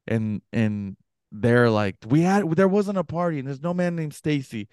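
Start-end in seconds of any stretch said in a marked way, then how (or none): 2.1-4.7 high retold protest; arguing. Couple argue with the intruder about a party, imitated protest. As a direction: imitate indignant homeowners disputing a claim. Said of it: "kinda arguing with him".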